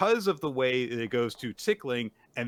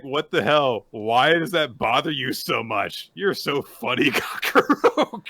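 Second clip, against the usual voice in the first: incredulous; 5 dB louder than usual. Retold or imitated. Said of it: "and she's like".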